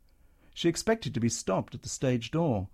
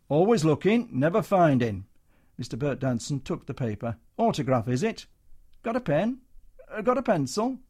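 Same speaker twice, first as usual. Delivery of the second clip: patronising showman; 4 semitones higher, 3 dB louder than usual. Acted. Comedian patronising soldier.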